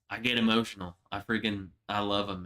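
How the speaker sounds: quiet, holding back tears, voice sinking; choked up. Real, not acted. Streamer tells chat about veterans, choking up softly. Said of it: "I'm gonna start crying".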